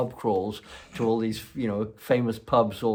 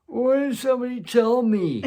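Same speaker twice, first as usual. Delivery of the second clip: dismayed friend; 7 dB louder than usual. Retold or imitated.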